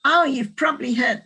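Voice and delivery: put-on a mild Australian accent on Oh, you've probably heard; quoting the school staff in a light Australian accent. Speaker quoting school staff in a light Australian accent. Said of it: "this is my Australian accent".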